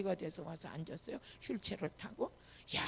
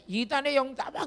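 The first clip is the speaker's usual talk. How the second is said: raised-voice order to a spirit; exorcism command; 4 semitones higher, 5 dB louder than usual. Retold or imitated. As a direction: cast the spirit out, louder and higher.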